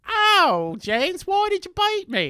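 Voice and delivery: high, loud mock whine; high pained mock whine; George quote. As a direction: squeal it like a hurt boy. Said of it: "George is like".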